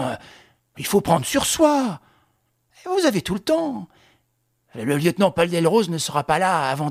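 officer taunts the condemned prince with mock cheer. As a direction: needle him with fake concern. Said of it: "il s'écria".

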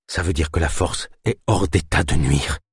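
trembling, exhausted voice; shaky with cold. Acted. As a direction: let it shake from fatigue. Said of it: "d'une voix encore tremblante de fatigue et de froid".

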